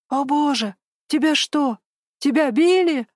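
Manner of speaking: a frightened gasp that builds to a cry; alarmed gasp. A narrator's reading. Ivan fears Lisa was beaten, alarmed rising gasp. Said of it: "ахнул Иван".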